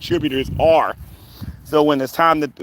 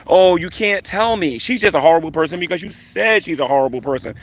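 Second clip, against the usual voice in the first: sarcastic; 4 semitones higher than usual. Real, not acted. Mocking a commenter without reasons.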